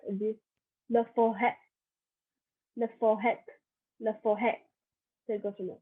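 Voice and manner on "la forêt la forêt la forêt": "la forêt" repeated with open "eh" ending; French accent circumflex. Shown as a demonstration. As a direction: say "la forêt" as luh-fo-HEH, separately each time. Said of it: "bottom to top to bottom again".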